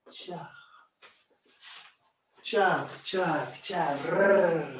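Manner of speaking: drilling sound effect. Shown as a demonstration. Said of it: "I look at it and I drill it".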